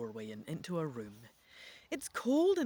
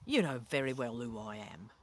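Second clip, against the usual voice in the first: menacing growl; 8 semitones lower than usual. A narrator's reading. Ghost of the evil king growls at his nephew, low and menacing. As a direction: growl it at him, a hint of threat. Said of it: "the voice growls".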